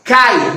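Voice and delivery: "cai" as a single gliding syllable; in one go. Shown as a demonstration. Teacher proving a diphthong to students, "cai" said as one syllable. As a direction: say "cai" in one breath, the a sliding into i. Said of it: "não é pronunciado de uma só vez".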